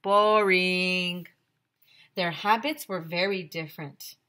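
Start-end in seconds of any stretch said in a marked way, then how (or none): 0.0-1.3 loud, drawn-out complaint; bored dog. Acted. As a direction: groan the word out as a bored dog. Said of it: "Dog said".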